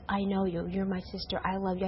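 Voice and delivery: low, softly retold reassurance; gentle retold reassurance. Sister retelling brother's forgiveness, low gentle reassurance. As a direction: quote him tenderly, low and quiet. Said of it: "He says".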